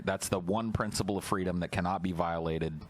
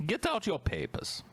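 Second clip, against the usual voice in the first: high, curt papers demand; stern guard demand; 13 semitones higher than usual. Pretend. Mock border guard demand.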